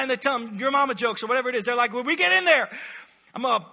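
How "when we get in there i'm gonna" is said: trash talk. Retold or imitated. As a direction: jeer at the enemy, half playful. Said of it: "I don't know, trash talk".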